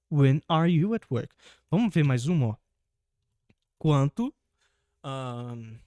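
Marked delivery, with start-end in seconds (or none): 0.1-1.3 slow, careful English model sentence. Shown as a demonstration. Teacher slowly modelling the question for students. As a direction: spell it out slowly for the class. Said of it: "a gente inverteu".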